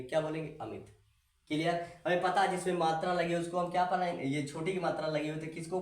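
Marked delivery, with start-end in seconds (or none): 0.6-0.9 अमित with a short, easy i. Shown as a demonstration. Teacher shows how the short matra is read, short easy i. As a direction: say अमित gently, the i kept brief. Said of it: "हम आराम से बोलेंगे".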